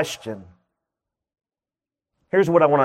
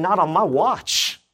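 defiant declaration; 3 semitones higher than usual. Pretend. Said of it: "you gotta start saying".

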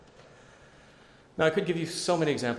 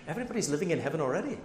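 quick, higher imitated Indian accent; 4 semitones higher, much faster than usual. Indian missionary marvels at life in America, Indian accent. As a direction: rattle it off in a put-on Indian accent. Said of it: "I'll stop doing the Indian accent".

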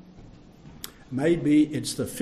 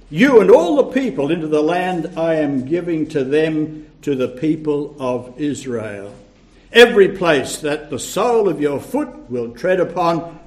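loud, solemn Bible reading; Scripture reading; 4 dB louder than usual. Acted. Preacher reading God's charge to Joshua aloud, solemn reading. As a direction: proclaim the Lord's words to Joshua.

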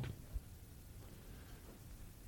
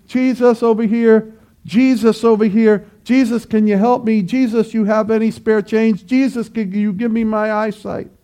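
casual, half-hearted asking; 6 dB quieter than usual. Acted. Preacher mimicking a beggar who is not desperate, casual and soft. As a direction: toss it off like a mild request for spare change. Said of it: "not simply saying".

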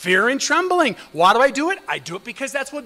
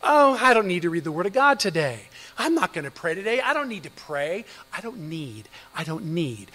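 flippant; 4 semitones lower than usual. Retold or imitated. Imitating a comfortable Christian brushing off Bible reading, flippant. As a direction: shrug it off as if it hardly matters. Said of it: "I can flippantly say".

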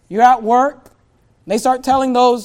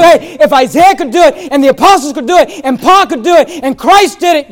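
loud, fast, climbing pulpit cry; preaching at full force; 4 semitones higher, 9 dB louder than usual. Acted. Pastor rallies the church to bear shame, preaching at full force. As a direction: build the fire, preach it out. Rising climax of sermon.

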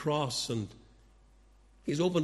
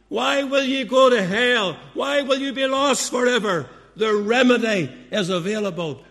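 higher and louder, each why hammered out; fervent preaching cry; 6 semitones higher, 7 dB louder than usual. Real, not acted. Preacher begging listeners not to be lost, loud impassioned pleading. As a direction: plead hard with every question. String of urgent why questions.

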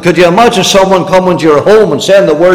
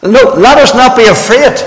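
wrong version; 10 semitones higher, 3 dB louder than usual. Shown as a demonstration. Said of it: "He didn't say that".

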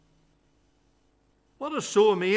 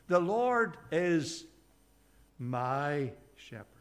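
slow, with "my" set apart after a pause; stress on "my"; 2 semitones lower, 4 dB quieter, slower than usual. Shown as a demonstration. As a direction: draw out the word "my", then drop softly to finish. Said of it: "he uses the word "my".

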